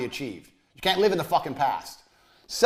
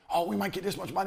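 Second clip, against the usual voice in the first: mock giddy hope; 3 semitones higher, 8 dB quieter than usual. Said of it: "get giddy and excited".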